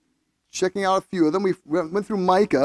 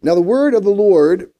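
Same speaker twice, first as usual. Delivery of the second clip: louder, emphatic reading aloud; scripture reading; 3 semitones higher, 8 dB louder than usual. Acted. Pastor opens the Bible reading for the congregation, scripture reading. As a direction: read it out to a congregation.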